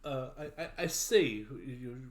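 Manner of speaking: lightly voiced French knight, hesitant. French knight planning the wyvern attack with companions, hesitant. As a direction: feel your way haltingly through the knight's plan.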